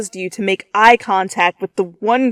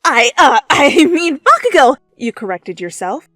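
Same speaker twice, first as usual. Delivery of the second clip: loud, high nervous rush with laughs; talking fast; 8 semitones higher, 7 dB louder than usual. A narrator's reading. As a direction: rattle it off, flustered. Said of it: "You spoke fast".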